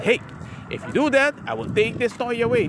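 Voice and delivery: a touch of stern parent warning; strict parent. Retold or imitated. Dad warning his son about the toy, mildly stern. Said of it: "you also have to be strict sometimes".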